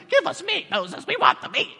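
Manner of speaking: high, whiny mock complaint; whiny Israelites. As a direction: whine like spoiled kids begging for meat. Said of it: "They're always like".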